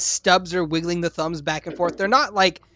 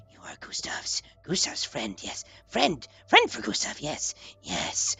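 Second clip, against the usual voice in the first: needy creature friend; 3 semitones lower, 7 dB quieter than usual. Acted. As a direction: coo it like a devoted pet. Gustav declaring friendship.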